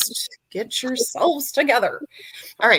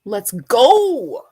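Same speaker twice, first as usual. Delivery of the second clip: quoting a viewer; 2 semitones higher, 10 dB louder than usual. Retold or imitated. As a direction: chant it like an eager fan. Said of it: "A B said".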